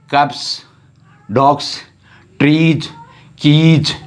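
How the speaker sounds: कप्स with s, डॉग्स, ट्रीज and कीज with z; plural endings. Shown as a demonstration. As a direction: read each plural and make the final sound clear. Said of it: "अब देखिए".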